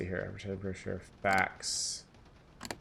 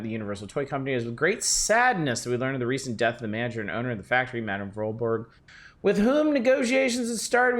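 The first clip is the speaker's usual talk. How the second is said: brisk, formal business letter read. Acted. Streamer reads the lawyer's fax aloud, formal and brisk.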